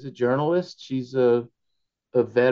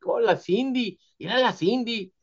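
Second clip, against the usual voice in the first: put-on much higher, doting old relatives; fond relatives; 12 semitones higher than usual. Mexican relatives admiring the new wife, high and doting. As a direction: coo like an excited aunt. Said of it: "they're like".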